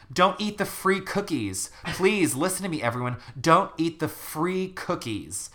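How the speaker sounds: put-on panicked kid pleading into a microphone; desperate plea. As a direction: beg the whole school to believe you. Ricky pleads into the mic.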